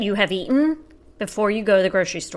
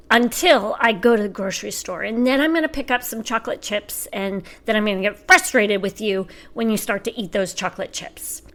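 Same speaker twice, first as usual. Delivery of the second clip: lightly mocking mom's lecture; quick, mock-exasperated mom rattling on; son imitating mom; faster than usual. Teen son teasing mom about her shopping, mock lecturing. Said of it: "this is him acting like me".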